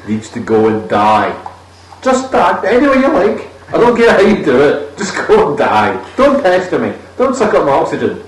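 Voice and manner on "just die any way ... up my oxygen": mock rant. Real, not acted. Rant against comedy accents.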